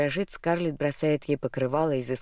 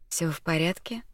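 unvoiced concerned whisper; 3 semitones higher than usual. Asking in whisper. (шёпотом, участливо)

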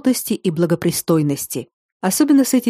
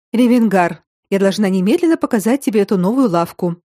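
ordinary delivery, nothing marked

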